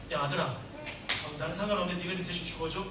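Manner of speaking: low, soft, offhand father asking a favour; mock callous father. Preacher imagines God asking his son to die instead, mock offhand.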